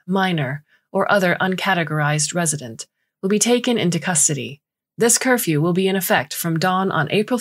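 calm robotic corporate voice; robotic announcement. Acted. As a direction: announce it like an automated alert. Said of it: "a robotic corporate voice announces with a discordant calm".

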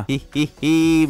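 spelt-out mock snicker; mischievous fake "hee hee hee"; joking giggle. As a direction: tease with a deliberate little laugh. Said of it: "मजाक कर रहा हूँ".

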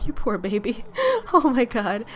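laughing through sympathy; amused pity. Real, not acted. Laughs at child's mishap.

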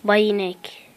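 whispered greeting to a cow; playful whispered hello. Real, not acted. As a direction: breathe the name out in a whisper.

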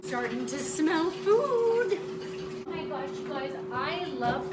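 high, loud and slow; delighted, drawn out; excited. Real, not acted. Food starts smelling.

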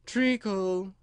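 high, drowsy drone; lightly voiced sleepy murmur. A narrator's reading. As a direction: say it as if half asleep. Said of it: "said a sleepy voice behind her".

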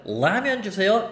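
"라면" met heldere Engelse L; English L sound. Shown as a demonstration. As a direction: tong tegen de tanden bij "라면". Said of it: "L 발음".

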